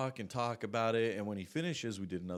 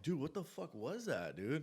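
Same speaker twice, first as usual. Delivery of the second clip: gasping for air; 4 semitones higher, 3 dB quieter than usual. Retold or imitated. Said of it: "I'm gasping for air".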